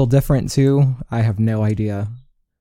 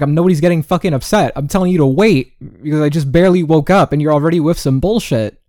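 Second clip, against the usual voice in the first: blew up; 2 semitones higher, 4 dB louder than usual. Retold or imitated. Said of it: "I fucking blew up".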